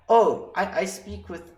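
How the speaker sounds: put-on high-pitched, clumsy British accent; bad British accent. Patient starting to explain her accent, badly imitated British accent. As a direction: attempt a British accent, not very well. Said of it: "I cannot do a British accent very well".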